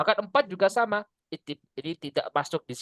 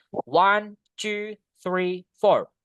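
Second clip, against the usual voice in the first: each number said alone, "one", "two", "three", "four" evenly stressed; slow separate beats on "one, two, three, four"; content words only; 3 semitones higher, much slower than usual. Shown as a demonstration. Teacher showing content words to class, evenly stressed "one, two, three, four". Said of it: "So, you can say".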